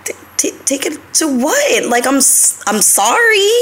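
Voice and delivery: stammering, then a high apology; flustered stammer. Retold or imitated. Retold to viewers, flustered stammer then high sorry. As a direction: caught off guard, stumble out sorry. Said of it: "And I'm like".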